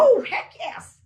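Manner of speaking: loud, high, drawn-out affirmation; emphatic yes. Real, not acted. Witness answering whether she was prevented from working, emphatic. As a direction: answer with slow, forceful emphasis.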